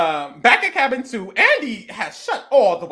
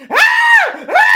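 mock screaming; 10 dB louder than usual. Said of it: "they're screaming".

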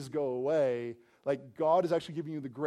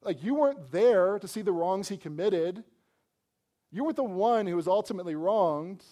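indignant scribes; 5 semitones higher, 6 dB louder than usual. Retold or imitated. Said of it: "They're saying, like".

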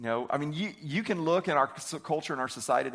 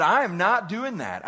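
stubborn defiance; 3 semitones higher, 3 dB louder than usual. Retold or imitated. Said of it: "And so he said".

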